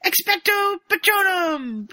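high, loud, straining incantation; Harry casting a failing spell; spell shouted. Retold or imitated. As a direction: push the spell out with effort. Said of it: "having trouble too".

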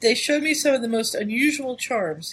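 reading a letter aloud, lightly voiced. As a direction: read it like a teasing old friend. Reads the letter in a voice.

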